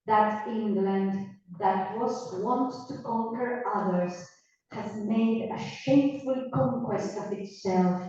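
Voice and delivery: slow, measured verse recitation; Shakespeare recital. Acted. Teacher reading the Shakespeare passage aloud to students, slow verse recital. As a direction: declaim the verse slowly, line by line.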